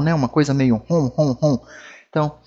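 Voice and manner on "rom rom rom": nasal hum rom, rom, rom; exaggerated nasal French rom; nasal rom sound. Shown as a demonstration. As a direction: hum it through the nose like a French cliché. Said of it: "um som nasal".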